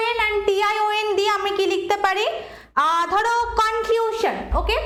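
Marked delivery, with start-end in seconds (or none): 3.6-4.4 কনক্লুশন slowly, leaning on ক্লু; stress on middle syllable. Shown as a demonstration. Teacher giving a new example, কনক্লুশন stressed on ক্লু. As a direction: hold ক্লু and drop শন in কনক্লুশন. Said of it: "ক্লিউ এর ওপর বেশি পড়ছে".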